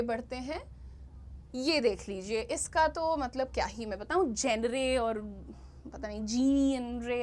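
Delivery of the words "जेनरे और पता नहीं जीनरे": जेनरे as JEN-ray, जीनरे as JEEN-ray; clueless misreadings. Shown as a demonstration. Teacher pretending not to know, जेनरे and जीनरे misread. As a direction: guess at it, hard j and ray ending. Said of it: "I have no idea".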